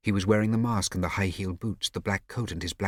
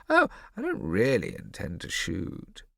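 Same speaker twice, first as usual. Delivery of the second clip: dry amused lady; 3 semitones higher, slower than usual. Acted. Ida's voice.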